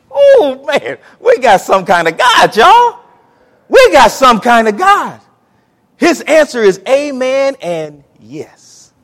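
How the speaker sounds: very high, loud whoop; jubilant shout. Real, not acted. Preacher shouting praise to the congregation. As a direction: celebrate out loud.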